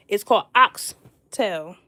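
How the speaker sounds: "oxtail" slow and firm, no s at the end; slow, insistent "It's called oxtail"; emphatic correction. Shown as a demonstration. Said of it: "Don't call them oxtails".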